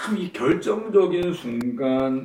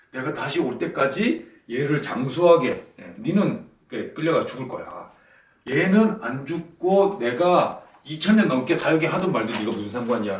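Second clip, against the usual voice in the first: peevish retort. Retold or imitated. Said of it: "예수님이 성격을 드러내셨습니다".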